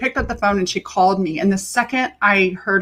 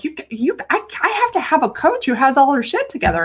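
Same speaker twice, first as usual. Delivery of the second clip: client's demand; 6 semitones higher than usual. Retold or imitated. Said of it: "she was like".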